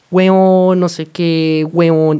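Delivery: casual chat between friends, slang stressed; slang intonation. Shown as a demonstration. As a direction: punch the first huevón between friends. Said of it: "este tipo de acentuación así como se las estoy dando".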